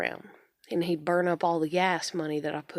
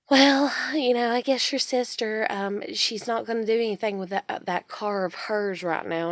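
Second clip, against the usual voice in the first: mimicking mom; 3 semitones higher, 4 dB louder than usual. Mom offering the sister's old car, higher mocking mom voice. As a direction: put on mom's casual offhand tone.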